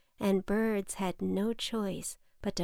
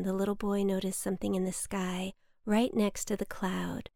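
plain reading voice

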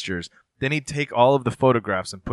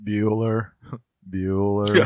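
dull monotone roll call; monotone teacher; slower than usual. Retold or imitated. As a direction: drone the name like a bored teacher. Ferris Bueller teacher roll call.

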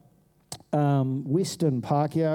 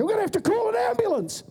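put-on much higher, fretful elderly voice; worried onlooker; faster than usual. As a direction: announce it like a flustered pensioner. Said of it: "they say".

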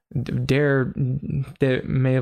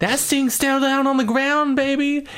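high put-on swaggering character voice; hammed-up falsetto, stretching the endings; Sting; 10 semitones higher than usual. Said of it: "I like my version better".

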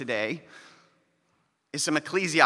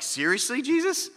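disbelief climbing high on the name; mock outrage, Jesus pitched way up; incredulous; 9 semitones higher than usual. Pastor reacting to scripture with mock disbelief. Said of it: "I feel that creep up in me".

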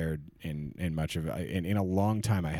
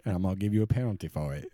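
mock ref call; faster than usual. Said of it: "Southern gay ref having to call penalties".

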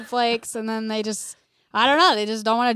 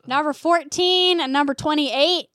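slightly raised, deliberate public callout; retold announcement; 3 semitones higher, 4 dB louder than usual. Store worker telling team parents to get kids, mock announcement. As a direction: announce it to the table, exasperated.

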